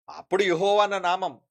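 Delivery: ordinary delivery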